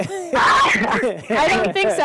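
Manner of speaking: slow, laughing disbelief. Real, not acted. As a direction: laugh the words out.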